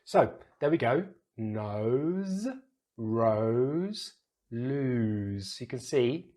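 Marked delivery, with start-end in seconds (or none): 1.4-5.6 "Nose, rose" with O glide, "lose" with long oo; each word slow and separate, vowels held; contrasted vowel sounds. Shown as a demonstration. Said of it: "the difference in, in, in the pronunciation".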